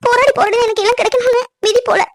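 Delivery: high, tearful voice breaking; crying. Acted. Bride crying to groom about her struggles, tearful. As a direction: lament fate through tears. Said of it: "அழாத பவி".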